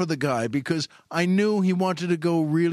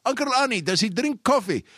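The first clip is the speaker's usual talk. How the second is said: higher-pitched urgent question; eager retold call; 7 semitones higher than usual. Store guy explaining his idea to the shopper, eager raised voice.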